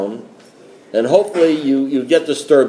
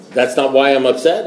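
mildly taken aback, rising at the end; puzzled question. Retold or imitated. Newcomer questions his sponsor's verdict, mildly puzzled. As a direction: query it back in mild disbelief.

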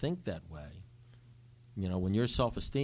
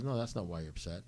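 softer, quicker retold sponsor reply; calm contradiction; 3 semitones lower, 5 dB quieter, faster than usual. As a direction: quietly refuse to agree. Sponsor calmly contradicts him.

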